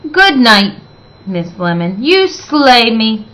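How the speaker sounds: a dragon's dry crack, slowed at the end; dry cracking retort. Acted. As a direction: toss off a sly, cutting joke. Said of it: "cracked Miss Scales".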